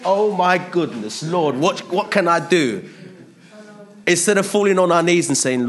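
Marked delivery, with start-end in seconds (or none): 0.1-2.9 high, loud flustered panic; mock panic. Preacher mimicking believers panicking at persecution, high and loud. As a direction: throw up your hands in mock alarm. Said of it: "we're like".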